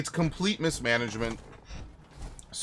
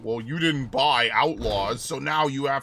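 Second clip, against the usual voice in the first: mocking whiny quote; 2 semitones higher, 3 dB louder, slower than usual. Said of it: "keep bitching about".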